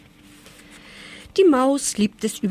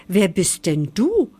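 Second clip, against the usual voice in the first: erstaunt; 3 dB louder than usual. Acted. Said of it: "fragt Herr Zwerg erstaunt".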